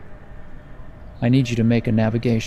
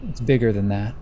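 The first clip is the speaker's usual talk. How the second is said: lightly dramatic storyteller delivery; game master's scene setting. Acted. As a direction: set an uneasy scene, phrase by phrase.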